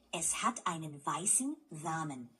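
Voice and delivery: Rahmen said with a soft German R, not an English R; teacher models Es hat einen weißen Rahmen. Shown as a demonstration. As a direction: let the R in Rahmen stay soft. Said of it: "It's Rahmen with a soft R sound".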